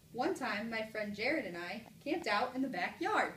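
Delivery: lively exclamation, landing hard on "backyard"; exclamation reading. Shown as a demonstration. Teacher tries a third mark for class, emphatic exclamation. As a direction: exclaim it, punching "backyard" and falling. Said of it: "Exclamation point".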